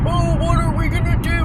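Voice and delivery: high-pitched imitation of a panicking dad; hammed-up fretting; mock freaking out. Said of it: "is still freaking out".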